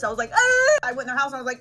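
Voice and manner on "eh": mock grimace. Mock hesitant reaction.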